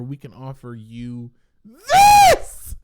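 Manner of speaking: hotel clerk offering rum instead of a refund; mock hotel clerk. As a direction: drag it out like a fake-polite offer.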